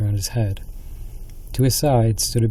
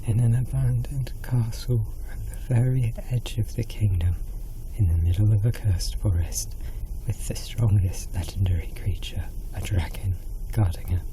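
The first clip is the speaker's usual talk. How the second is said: hushed, frightened queen's whisper; panicked whisper; 5 dB quieter than usual. Acted. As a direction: whisper it in rising dread.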